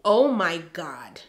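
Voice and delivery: breathy hushed plea; whisper. Real, not acted. Begging God in her diary, she whispers. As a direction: breathe it out like a prayer. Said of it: "I'm very passionate here".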